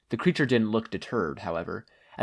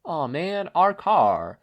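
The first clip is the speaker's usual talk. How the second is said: lamenting; 7 semitones higher, 5 dB louder, much slower than usual. A narrator's reading. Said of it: "one of the blue men lamented".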